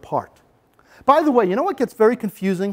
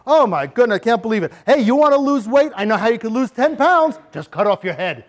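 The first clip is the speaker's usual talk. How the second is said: a bully's sneering taunts, pitched up; mock bully taunts; 3 semitones higher than usual. Shown as a demonstration. Teacher playing a bully to show a student verbal put-downs, sneering. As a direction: jeer at the student like a schoolyard bully. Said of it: "I'm gonna hurt you here, verbally".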